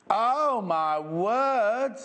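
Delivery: loud, high burst of surprise; delighted surprise. Real, not acted. Presenter sees a viewer's finished quilt, loud amazed exclaim. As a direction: gasp it out, truly amazed.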